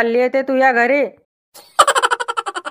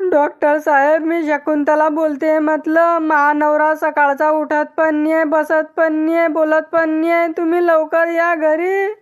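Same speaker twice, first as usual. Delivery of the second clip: higher-pitched urgent plea to a doctor; raised-pitch phone appeal; 4 semitones higher than usual. Acted. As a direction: plead for help, pitched up.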